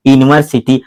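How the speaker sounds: यूनिवर्सिटी said as "inversiti", dropping the opening "yu"; the student's wrong यूनिवर्सिटी, with no "yu" at the start; wrong reading. Shown as a demonstration. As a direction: mispronounce यूनिवर्सिटी starting on a bare "in". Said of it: "अब आप मुझे बताओ, जब गलत पढ़ोगे".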